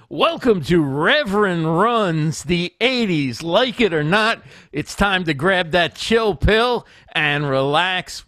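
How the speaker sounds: slow, sing-song host intro read; show intro announcer. Pretend. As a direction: announce the show with drawn-out, swooping words.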